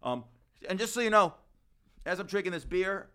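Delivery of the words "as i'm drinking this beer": tipsy, loose slurring speech. Real, not acted. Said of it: "I'm getting drunk again".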